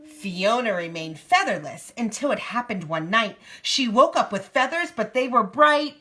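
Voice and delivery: lively picture-book narration; reading to a child. A narrator's reading. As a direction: read it out in a clear storybook lilt.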